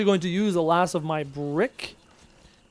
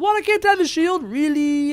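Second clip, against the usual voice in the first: high, loud disbelief; indignant, baffled gamer; real incredulous outburst; 11 semitones higher, 4 dB louder than usual. Real, not acted. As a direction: protest it in high-pitched, louder disbelief. Disbelief at game refusing shield dye.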